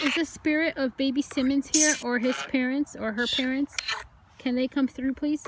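loud, polite summons to spirits; calling out. Real, not acted. Ghost hunter asking for Baby Simmons, calling out. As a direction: call for them to come through.

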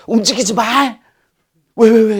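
put-on very high, loud childish yell; playful shout. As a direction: fling it out as a silly playful joke. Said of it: "유치한 멘트". (장난스럽게 지르는 유치한 고함)

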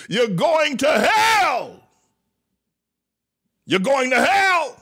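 a preacher condemning his flock to hell; fiery preaching. Acted. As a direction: thunder it from the pulpit. Preaching at full force.

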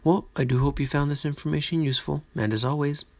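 fast, grand mad scientist sign-off. Pretend. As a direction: gloat like a lab villain. Sign-off in mock villain tone.

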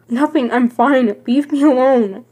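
upset, loud denial; defensive outburst. Acted. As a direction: shut her out forcefully. Upset friend pushing her away.

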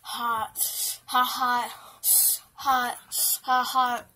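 loud pained cries of hot; yelling. Real, not acted. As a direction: yelp it from a burned mouth. Burning mouth, yelling hot.

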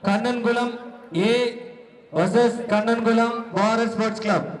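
steady public address announcement; announcer. Acted. Announcer declaring the winning team to the crowd. Announces 60 kilo category match.

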